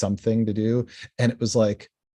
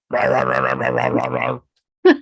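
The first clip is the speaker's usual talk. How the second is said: mock muffled rah-rah noise; garbled intercom growl; 2 semitones higher, 3 dB louder than usual. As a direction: imitate a garbled buzzer voice. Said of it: "My response is always".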